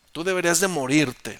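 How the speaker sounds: loud condemnation; condemning shout. Acted. David condemning Abner across the valley, loud. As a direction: pronounce his doom.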